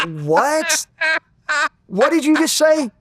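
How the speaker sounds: acted-out outraged comeback; incredulous challenge. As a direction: throw it back in angry disbelief. Acts out his angry confrontation at airport.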